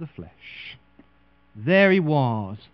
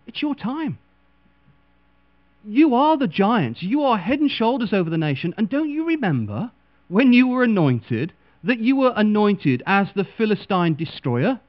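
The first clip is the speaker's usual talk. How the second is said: Goliath urging Saul; 5 semitones higher, 5 dB louder than usual. Retold or imitated. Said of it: "Goliath comes over and taps him on the shoulder and said".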